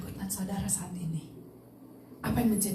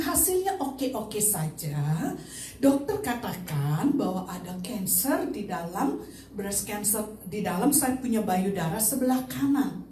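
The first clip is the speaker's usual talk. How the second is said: measured, calm breaking of news. Retold or imitated. Mother telling waiting family her results, calm tone. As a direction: break it to them calmly. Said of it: "Saya berbicara tenang".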